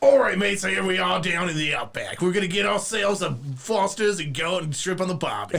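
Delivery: put-on Australian accent, shown off. Speaker shows off the australian accent they say they can do: australian accent. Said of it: "I can do a good Australian accent".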